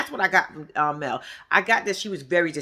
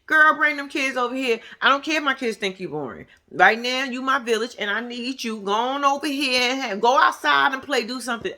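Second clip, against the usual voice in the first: higher, breezy call to a friend; casual friend voice; 4 semitones higher than usual. Retold or imitated. Voicing herself asking her best friend for help, higher. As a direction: toss it off like asking a favor. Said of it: "if we needed a favor real quick".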